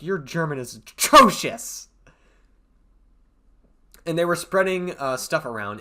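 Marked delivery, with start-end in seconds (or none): 0.0-1.9 put-on German accent. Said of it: "any audience member that's German is like".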